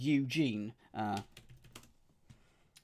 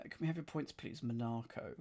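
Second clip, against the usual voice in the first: Eurovision host; 6 dB quieter, faster than usual. Retold or imitated. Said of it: "early versions of the Eurovision Song Contest".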